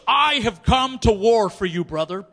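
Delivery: hammed-up warrior declaration; mock warrior vow. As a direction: intone it like a grave battle oath. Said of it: "And he goes".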